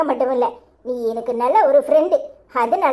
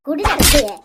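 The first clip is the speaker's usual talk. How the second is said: forceful demand, louder; angry demand; 4 dB louder, slower than usual. Acted. Woman demands the jewels back.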